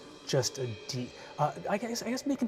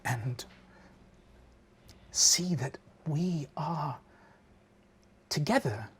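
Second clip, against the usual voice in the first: crying; 4 dB quieter than usual. Acted. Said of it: "she starts crying".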